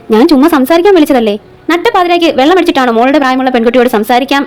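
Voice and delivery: measured audio-story reading with lightly voiced dialogue; story narration. A narrator's reading. Reads an episodic story aloud. (കഥ വായിച്ചു പറയുന്ന ശൈലി)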